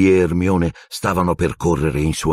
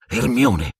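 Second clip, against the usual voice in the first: sudden higher call of her name; sudden exclamation; 6 semitones higher than usual. Acted. Harry suddenly alerting Hermione, an urgent exclamation. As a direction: blurt her name out, alarmed. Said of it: "esclamò all'improvviso Harry".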